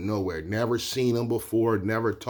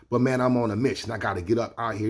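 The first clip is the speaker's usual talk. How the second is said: quick, lightly amped-up retelling; talking fast; faster than usual. Retold or imitated. Amped New Yorker telling bookseller he must go, talking fast. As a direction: hurry through it like someone leaving. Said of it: "so he was talking fast".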